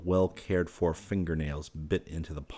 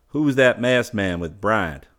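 curious ranch hand; 4 semitones higher, 8 dB louder, slower than usual. A narrator's reading. Ranch hand asks about stranger.

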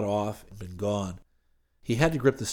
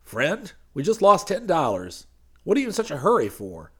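high, loud, fast preacher voice; panting preacher; 8 semitones higher, 6 dB louder than usual. Acted. Preacher to Hayes after chasing the car, high and fast. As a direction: catch your breath and complain.

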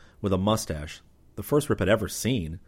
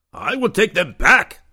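higher, loud, slow blunt declaration; flat statement; 13 semitones higher, 10 dB louder, slower than usual. A narrator's reading. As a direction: state it flatly, no room for argument. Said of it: "the Connie stated flatly".

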